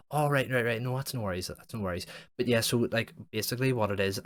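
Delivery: pushing on cheerfully despite a no; mock pushy caller. Imitating the college survey guy on the phone, upbeat and pushy.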